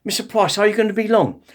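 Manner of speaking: lightly voiced nurse checking on a patient; a hint of a nurse calling through a door. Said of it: "the nurse".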